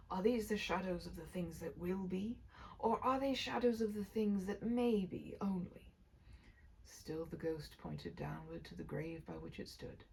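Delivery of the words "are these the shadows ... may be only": hushed, fearful question; fearful whisper. Acted. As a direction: whisper it in dread. Scrooge pleading with ghost, whispered.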